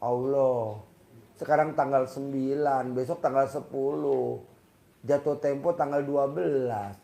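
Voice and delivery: a mild grumbling plea about due dates; a touch of a worried complaint to God; lightly whining prayer; complaining prayer. Shown as a demonstration. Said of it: "Doanya ngeluh".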